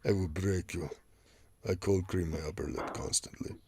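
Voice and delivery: lightly voiced mannish Russian woman; mock Russian accent. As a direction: echo the Russian strongwoman impression, understated. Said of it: "like, deep Russian thing going on".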